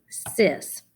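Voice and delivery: sys said alone as a separate syllable; isolated syllable. Shown as a demonstration. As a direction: clip sys off as one tap. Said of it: "first syllable".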